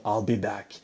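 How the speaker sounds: low, soft robotic monotone; flat mechanical movie-robot line; Schwarzenegger robot voice. Retold or imitated. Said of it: "'cause he sounds like a robot".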